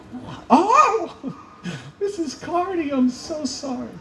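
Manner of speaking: high, laughing apology; sheepish giggle through the sorry; embarrassed laugh. Retold or imitated. Coach realizing it is Missus Cardi, apologizing with a high laugh.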